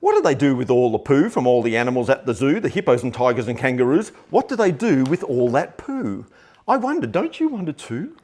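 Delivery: lilting storybook read-aloud; sing-song bedtime reading, drawing the child in. Acted. Dad reading a funny picture book to his little girl, lilting.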